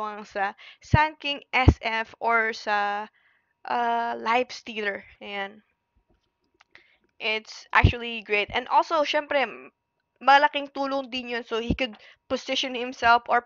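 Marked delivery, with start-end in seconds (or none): 5.2-8.5 whispered. Acted. Aside during the cast.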